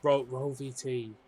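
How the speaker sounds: slow, spelled-out cue for the catchphrase; slow prompt. Shown as a demonstration. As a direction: read the phrase out slowly as a prompt. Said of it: "what's the phrase you wanna say".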